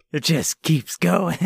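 slow, laughing through the words; can barely get it out for laughing. Real, not acted. Cohost cracking up at the escalating joke, laughing.

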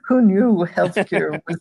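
wry line said through a chuckle; amused mock surprise with real laughter; laughing aside. Real, not acted. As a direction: toss it off as a joke, laughing. Jokey rhetorical aside, laughing.

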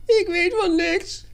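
very high, loud panicked voice; frightened little man's squeak. A narrator's reading. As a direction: squeal it in terror. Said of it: "piepte hij".

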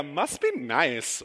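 slow, lightly envious drawl; coworker's catchphrase. Retold or imitated. Pastor retelling his wife's coworker, slow mock envy. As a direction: draw it out like a jealous coworker. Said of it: "Steph would get, like, a".

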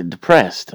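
depressed with the d punched hard; stress on first letter. Retold or imitated. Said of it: "emphasize the first letter".

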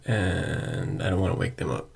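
hushed late-night voice so no one wakes; whispering at night. Real, not acted. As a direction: whisper so the house sleeps. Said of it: "I'm whispering here".

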